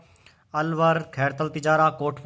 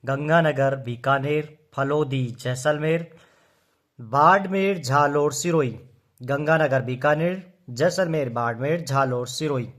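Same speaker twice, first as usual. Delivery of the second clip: rhythmic recitation. Shown as a demonstration. Teacher chants district names for class to copy, rhythmic. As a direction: model the list for students to copy. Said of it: "जैसे कि मैं बोल रहा हूँ वैसे याद करो".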